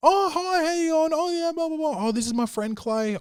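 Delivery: hammed-up high-pitched introduction; mock girly greeting. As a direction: pitch way up, imitating an overly sweet host. Girl's roommate greeting scene.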